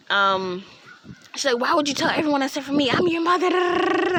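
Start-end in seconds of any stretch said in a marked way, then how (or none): 1.6-4.2 upset mom. Retold or imitated. Mom upset she was not told.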